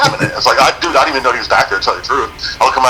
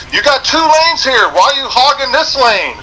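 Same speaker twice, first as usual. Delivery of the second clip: high, slow mock yell of a trooper; imitating the trooper, high and slow; 13 semitones higher, slower than usual. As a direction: shout across lanes like an annoyed trooper.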